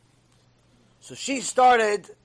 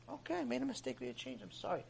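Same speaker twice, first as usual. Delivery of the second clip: much softer, apologetic and small; meek clerk; 4 semitones higher, 17 dB quieter than usual. Retold or imitated. Clerk apologizing to a yelling customer, softly and meekly. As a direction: shrink back and say sorry softly.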